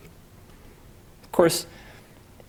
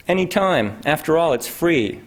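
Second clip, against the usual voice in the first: higher, hammed-up mock Russian accent; a lightly put-on, jokey Russian accent; bad fake Russian accent; 7 semitones higher than usual. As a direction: toss it back to the poet in a comical Russian accent. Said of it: "bad fake Russian accent".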